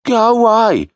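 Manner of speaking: high, put-upon little hobbit sigh; tired plea, well above the narrator; Bingo's weary voice. A narrator's reading. Bingo to the knocking: high, weary go away. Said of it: "he added".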